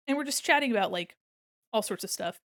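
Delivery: ordinary talk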